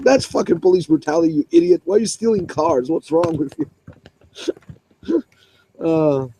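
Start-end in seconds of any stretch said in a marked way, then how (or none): 0.0-3.7 very high, yelling mock fury; imitated furious cop. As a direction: snap at the idiot kid. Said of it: "he was so angry".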